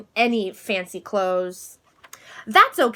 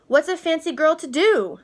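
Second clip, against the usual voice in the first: dramatic sigh; 5 semitones higher, 4 dB louder than usual. Acted. Nancy asks her doll dramatically.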